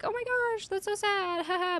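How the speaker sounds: high, soft, fake-sad giggly voice; ditzy pretend sorrow, then a giggle; mock Squirrel Girl. Squirrel Girl shrugging off her sidekick's death, high and giggly. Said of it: "she's like".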